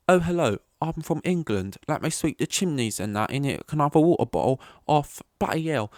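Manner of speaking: high, hammed-up English accent; bad English accent. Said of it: "someone doing an English accent".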